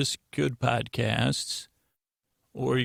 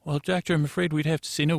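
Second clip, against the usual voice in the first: lightly acted higher, quicker refusal; apologetic turn-down, a bit higher and fast; institute receptionist; 3 semitones higher, faster than usual. Institute staffer refuses the doctor, lightly acted higher, quick voice.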